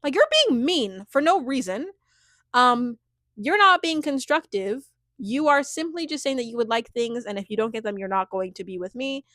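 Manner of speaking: lightly acted confrontation, emphatic at first; imagine her firmly calling him out; a touch of indignant pushback; standing up firmly. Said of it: "she's stepping into her power".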